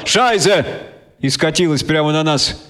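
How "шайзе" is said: yelled curse. A narrator's reading. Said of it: "заорало".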